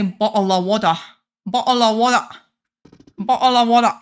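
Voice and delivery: "Bottle of water" with the t in Bottle dropped; showy accented pronunciation. Shown as a demonstration. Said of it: "pronounces it like that".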